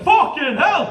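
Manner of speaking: sudden high shout of shock; yelped with a laugh; startled swear. Retold or imitated. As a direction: blurt it out in fright. New bloke startled, swearing.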